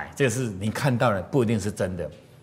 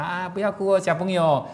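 put-on a kind, higher voice asking a child why he cries; lightly raised, kind tone to a crying child; gentle comfort; 5 semitones higher than usual. Shown as a demonstration. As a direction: soften and reassure. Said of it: "是不是更好听".

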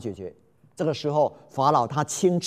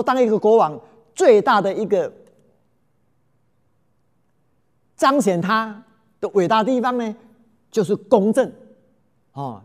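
raised, declaiming royal voice; king's proclamation; 4 semitones higher, 4 dB louder than usual. Acted. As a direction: proclaim it like a young king before a crowd. King proclaims justice to the women.

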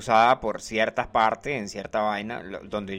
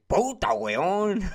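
annoyed; 7 semitones higher, slower than usual. Shown as a demonstration. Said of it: "molesto con alguien, le puede decir".

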